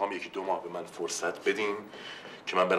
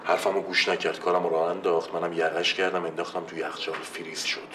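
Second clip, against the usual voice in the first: loud boasting; 3 dB louder than usual. Acted. Client boasts of fight, loudly.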